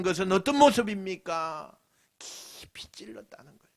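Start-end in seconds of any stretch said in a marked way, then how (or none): 2.2-3.7 whispered, softer emphasis. Real, not acted. Preacher hushing the crowd to whisper. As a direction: lean in and whisper it.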